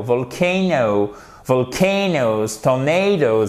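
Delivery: slow VOLCANO, VOLCANOES, TORNADOES with long AY; second-syllable stress. Shown as a demonstration. Teacher repeats the words for students, emphatic second syllable. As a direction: lean on CAY and NAY. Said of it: "l'accent tonique".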